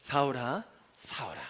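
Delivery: put-on soft tender tone. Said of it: "목소리는 굉장히 부드러운 사랑이 가득한".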